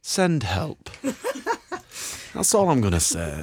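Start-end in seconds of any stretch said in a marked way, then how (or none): 0.9-2.3 breathy high laugh. Real, not acted. Laughs after asking for help.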